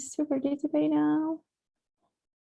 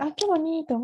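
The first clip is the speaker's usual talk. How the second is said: admiring exclamation; 4 semitones higher, faster than usual. Shown as a demonstration. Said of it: "por ejemplo, dicen".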